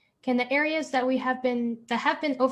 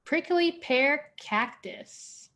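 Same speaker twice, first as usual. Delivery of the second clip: bingo caller; 2 semitones higher, slower than usual. Shown as a demonstration. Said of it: "Next up, we have".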